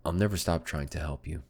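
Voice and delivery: measured, steady storybook read; story narration. Acted. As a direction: narrate the scene like an audiobook. Reads visual novel aloud.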